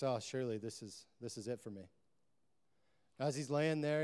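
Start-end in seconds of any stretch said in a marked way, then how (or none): 0.0-1.9 lower-pitched, mildly despairing thought; hopeless resignation. Retold or imitated. Stranded man left in the ditch, hopeless resignation. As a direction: sink quietly into giving up. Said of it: "feels hopeless and stranded".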